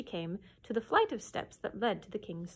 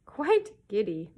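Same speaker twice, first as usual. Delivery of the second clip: slow, louder chorus echo; courtiers echoing; 7 dB louder, slower than usual. Acted. Courtiers echoing the king, slow and louder. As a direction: parrot the king in unison. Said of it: "echoed all the courtiers".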